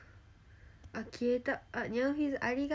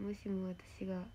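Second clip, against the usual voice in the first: whispering; 3 semitones lower, 8 dB quieter than usual. Real, not acted. Worried musing, whispered aside.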